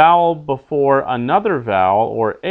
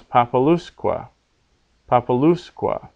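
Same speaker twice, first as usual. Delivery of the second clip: papaLUSque, stress moved onto LUS; long U accent. Shown as a demonstration. Teacher adding enclitic, papalusque stressed on LUS. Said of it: "that U becomes long".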